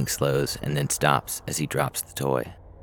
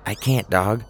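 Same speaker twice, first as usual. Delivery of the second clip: whispering through teeth; 7 semitones higher, 4 dB louder than usual. A narrator's reading. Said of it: "Scout whispers through clenched teeth".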